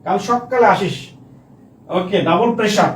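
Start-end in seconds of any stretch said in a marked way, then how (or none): 0.2-1.1 "সকালে" with a doubled, held ক; doubled consonant. Shown as a demonstration. Teacher gives an everyday example, doubled ক in "সকালে". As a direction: stress the long k in "সকালে". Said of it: "সকালে আসিস মানে এটার নাম হচ্ছে দ্বিত্ব ব্যঞ্জন".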